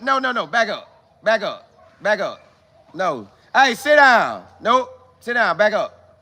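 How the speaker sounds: off-camera orders. Real, not acted. Host ordering someone in the room to sit down, firmly. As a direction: tell someone in the room to back off.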